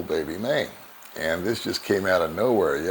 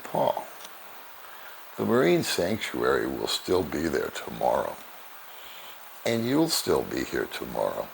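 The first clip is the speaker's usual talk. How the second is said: a lightly voiced calm, sweet girlfriend, softer; 3 semitones lower, 3 dB quieter than usual. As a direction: gently reassure him, soft and unhurried. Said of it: "very calmly, very sweetly".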